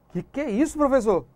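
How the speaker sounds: a hint of a questioning student; puzzled student. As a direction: interrupt as a baffled pupil asking the teacher.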